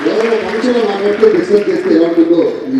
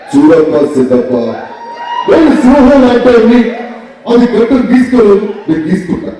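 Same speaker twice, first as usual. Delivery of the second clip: Pawan Kalyan impression; 4 semitones higher than usual. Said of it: "మీరు చేసింది పవన్ కళ్యాణ్".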